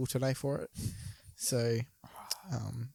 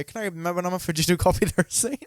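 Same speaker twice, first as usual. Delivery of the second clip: mock pickup line; 3 semitones higher, much faster than usual. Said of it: "if you just go".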